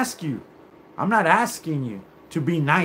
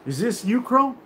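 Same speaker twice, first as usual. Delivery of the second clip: voicing the caller; 5 semitones higher than usual. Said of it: "you should have picked up the phone and said".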